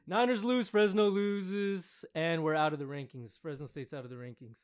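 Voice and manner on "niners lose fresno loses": exasperated rant. Real, not acted. Venting about team losses.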